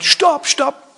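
high, sharp cry of stop; king stops it. Retold or imitated. King halts his bodyguard, high and urgent. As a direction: halt the guard at once, high. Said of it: "Und dann sagt der König sofort".

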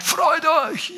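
Paul as general barking at the church. Retold or imitated. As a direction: command it like a four-star general. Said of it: "Und er brüllt die an und sagt".

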